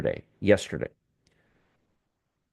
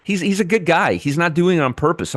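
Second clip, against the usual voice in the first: flustered protest; 6 semitones higher than usual. Real, not acted. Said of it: "I'm not yelling at anybody at all".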